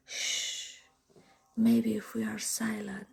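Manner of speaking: quick shush then whisper; hushing whisper. Retold or imitated. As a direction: keep her quiet, barely breathing. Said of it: "I was like".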